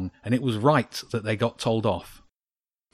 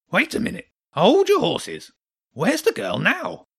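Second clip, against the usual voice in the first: high, loud, flustered squeak; agitated hedgehog; 10 semitones higher, 3 dB louder than usual. A narrator's reading. Hedgehog demanding where the girl is, high and agitated. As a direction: rein them in, high and rattled.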